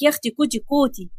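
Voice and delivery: grandfather lightly mimicking cutesy baby talk; understated mock cooing; mocking imitation. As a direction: quote the coo back with mild scorn. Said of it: "بقى بتقول لك".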